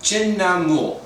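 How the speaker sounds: careful, deliberate sounding-out of a tricky word; slow, careful pronunciation. Real, not acted. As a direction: say the name slowly and carefully. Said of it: "I have to say it slowly".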